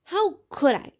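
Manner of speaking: high, loud indignant protest; Piggy protesting the blame; indignant cry. A narrator's reading. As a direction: fling the question back at him. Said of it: "cried Piggy indignantly".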